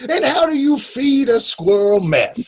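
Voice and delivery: high, hammed-up courtroom questioning; put-on Southern orator; mock Southern lawyer. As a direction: pose it to the jury as a blustering attorney. Resumes the Southern lawyer bit.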